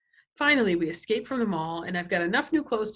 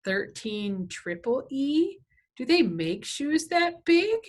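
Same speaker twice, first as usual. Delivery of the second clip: smirking disbelief; 6 semitones higher, 4 dB louder, much slower than usual. Retold or imitated. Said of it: "she's got a little smirk".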